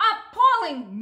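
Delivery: the cow lowing in shock; cow's dismay. Acted. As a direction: moo it out in shock. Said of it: "mooed the cow".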